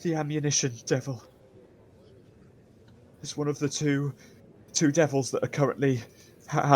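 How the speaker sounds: nervous, halting confession with stammers; terrified prisoner. Acted. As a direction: reluctantly give up information, stumbling. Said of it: "so terrified".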